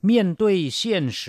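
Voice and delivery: slow, clear Mandarin teaching demo; careful Mandarin model. Shown as a demonstration. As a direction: model 面对现实 slowly for learners to copy. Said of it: "เผชิญหน้ากับความจริง".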